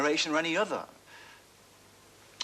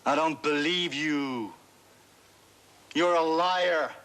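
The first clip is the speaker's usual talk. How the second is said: a sharp, louder snarl back; snarled retort; 3 semitones higher, 4 dB louder, slower than usual. Retold or imitated. The speaker retelling a singer snapping at the heckler, snarled. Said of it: "And you snarled back at him".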